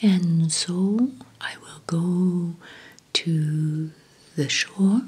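slow, lilting whispered imitation of her sing-song voice; a light whispered take on a sing-song voice; sing-song soft-spoken. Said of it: "because she talks like this".

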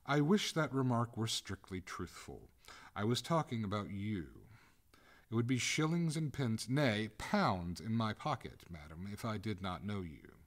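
lightly voiced indignant householder; exasperated master. Master of the house retorts to the ghost, sarcastic.

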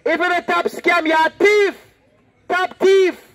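preacher turning Jamaican patois on a scammer. Shown as a demonstration. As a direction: switch into Jamaican patois to drive the word home. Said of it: "Let me say it in the patois way".

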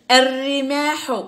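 الرماح slowly, no L, rolled doubled r; silent lam. Shown as a demonstration. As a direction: hold the r in الرماح, skipping the L. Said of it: "لم ننطق اللام".

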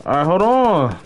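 high, indignant call-out of a cheater; heated complaint. Real, not acted. Streamer calling out an opponent who started early, high indignant anger.

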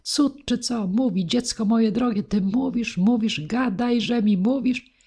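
high, astonished outburst; yelling like a madman. A narrator's reading. Gardener hearing his deaf daughter speak, crazed astonished yelling. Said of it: "wrzasnął jak wariat".

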